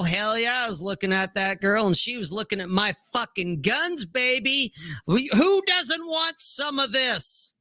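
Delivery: high, swaggering mock boast; playful cocky show-off, rising high at the end; cocky brag. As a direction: strut it, bragging about the guns. Cocky boyfriend reply acted out.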